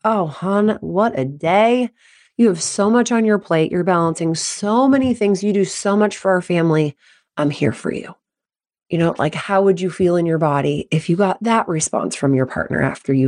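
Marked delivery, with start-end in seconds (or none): 0.1-8.2 supportive husband. Acted. Husband comforting wife after she vents, supportive. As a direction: soothe with understanding, easing down at the end. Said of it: "my lovely husband were to say".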